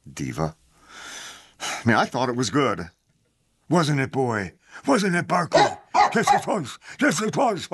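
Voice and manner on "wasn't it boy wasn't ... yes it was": talking to a dog. Real, not acted.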